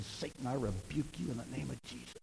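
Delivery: whispered rebuke, very soft; under the breath. Retold or imitated. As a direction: re-enact a hushed prayer against the devil. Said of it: "I've done it under my breath".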